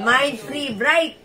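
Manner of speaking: Mind Free Bright said slowly as one phrase; slow and joined. Shown as a demonstration. (dahan-dahan, tuloy-tuloy na sinabi)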